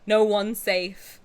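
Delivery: slow, ominous warning; dramatic slow warning. Real, not acted. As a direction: drag it out like a threat.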